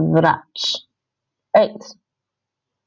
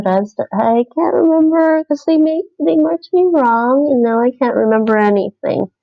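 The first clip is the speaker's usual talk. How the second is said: mock lament; 5 semitones higher than usual. Real, not acted. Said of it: "So sad".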